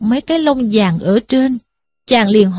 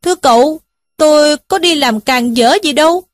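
pleading cry; 5 semitones higher than usual. Acted. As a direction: beg the uncle to believe him. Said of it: "kêu rằng". (van nài cao giọng, hơi hoảng)

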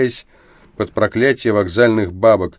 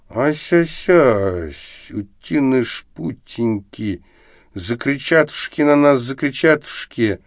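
put-on high babyish lisping voice; lisping baby talk; 5 semitones higher, slower than usual. Drunk Arestov clowning in lisping baby talk. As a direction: coo it like a silly lisping child. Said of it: "просисюкал Арестов".

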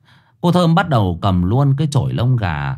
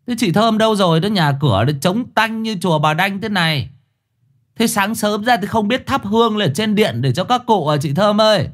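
higher, brash voice calling; cheeky calling out; 10 semitones higher than usual. A narrator's reading. Boy calls for Thơm on entering, brash and higher. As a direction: shout out cheekily for her.

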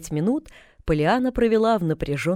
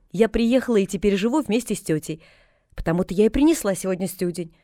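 a hint of a bright chattering girl; Pollyanna's voice; 3 semitones higher than usual.

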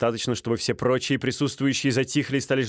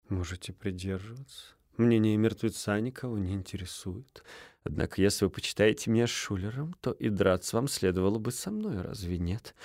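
icy duelist; 2 semitones lower, 5 dB quieter than usual. Acted. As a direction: speak softly, contemptuous. Стужев answering coldly.

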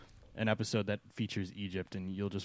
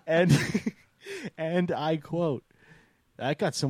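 slow, loud mock announcer; Michael Cole; 7 semitones higher, 8 dB louder, slower than usual. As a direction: draw it out as a big formal proclamation. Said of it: "what did Michael Cole say?".

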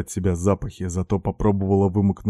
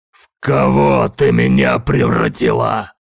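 loud, high and slow, voice changed; barked; 5 semitones higher, 8 dB louder, slower than usual. A narrator's reading. The narrator rounds on the woman who changed him, barking. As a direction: bark it out in fury. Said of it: "рявкнул я".

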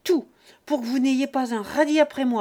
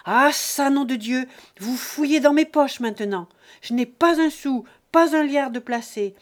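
put-on roaring old father, much louder and higher; furious shout; 5 semitones higher, 11 dB louder than usual. Father roaring at son who searched his pockets, furious shout. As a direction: explode with paternal fury. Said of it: "cria avec un furieux geste".

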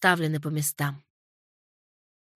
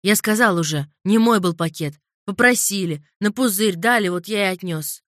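нервное оправдание; 6 dB louder than usual. Acted.

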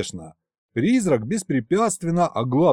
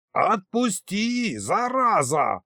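high, slow wail to be let go; a squealing plea; shrill squeal; 5 semitones higher, much slower than usual. A narrator's reading. Fur ball squeals at the tsar. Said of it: "верещал Банрабанус".

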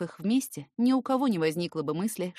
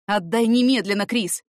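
loud, sharp command; angry shout; 2 semitones higher, 8 dB louder than usual. Acted. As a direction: shout at the kid sister. Brother grabs phone back.

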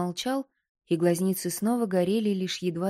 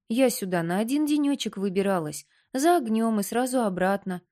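raised, higher, protesting; exasperated; 3 semitones higher than usual. Acted.

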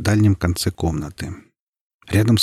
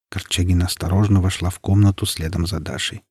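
plain reading voice

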